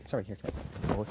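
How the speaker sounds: soft whisper to a nervous pet; whispered coaxing. Acted. Magician whispering to his nervous raccoon puppet. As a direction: hush him out gently.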